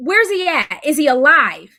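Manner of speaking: desperate screaming, yelled out. Recounting asking an officer about a son's accident, retelling a scream. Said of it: "now by this point I'm screaming".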